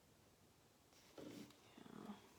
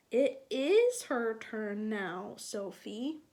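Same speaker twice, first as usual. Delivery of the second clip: firm mother; 7 dB louder, slower than usual. Acted. Mother explains whose turn.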